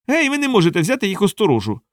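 a hint of a heckling dwarf; mock shout. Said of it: "крикнув із натовпу гном".

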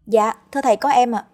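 put-on young sister voice. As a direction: play the flustered little sister.

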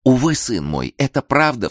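mild grieving mother's cry; anguished cry. A narrator's reading. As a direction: plead in despair. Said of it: "вскричала женщина".

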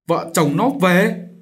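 bitter moaning retort. A narrator's reading. Mother repeats her relative's request, bitter and slow. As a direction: spit the words back, seething. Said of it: "nói giọng đầy nghiến".

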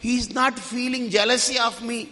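put-on little boy sulking to his mother; whining child. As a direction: son complaining to his mother, whiny child voice. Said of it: "వీడికి అన్నిటికీ చూపించాను".

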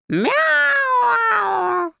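fierce cat yowl. Acted. The angry cat yowls at Marya, fierce hissing meow. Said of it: "страшно зашипел во всё горло".

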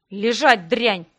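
a loud contemptuous command; harsh order. Acted. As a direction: shove the order at the captive. Captor slaps and orders her.

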